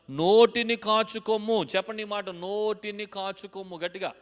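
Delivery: loud, high, drawn-out verse line; ringing, stretched-out pulpit call; emphatic recitation. Real, not acted. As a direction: proclaim it slowly for the crowd to repeat. Preacher drills congregation on verse.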